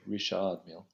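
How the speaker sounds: Richard Mille half French, half English; lightly Frenchified Richard with English sounds; halfway French pronunciation. Shown as a demonstration. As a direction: say Richard as ri-SHARD, keeping the d. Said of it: "you could just go halfway".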